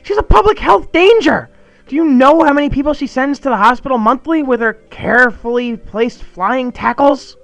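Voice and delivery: high, loud frantic tirade; panic attack rant. Acted. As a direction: scold his friend in wild panic. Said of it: "panic attack".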